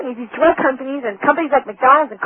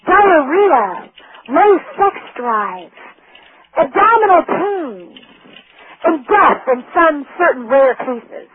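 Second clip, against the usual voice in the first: slow, lightly voiced imitation of a drug ad announcer; mock soothing ad voice; much slower than usual. Mocking the sweet ad voice for the seminar crowd, slow and lightly sugary. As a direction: read the side effects slowly, as if they were good news. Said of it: "And in the very same tone of voice".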